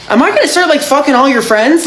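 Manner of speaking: high, incredulous question; mock disbelief. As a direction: ask it half-horrified, half-amused. Disbelief at coincidence.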